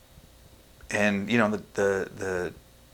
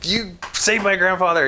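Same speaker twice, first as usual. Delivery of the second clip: high, loud re-enacted plea; retold desperate yell; 11 semitones higher, 6 dB louder than usual. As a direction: yell it at the doctors, reliving the panic. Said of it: "I was yelling at people".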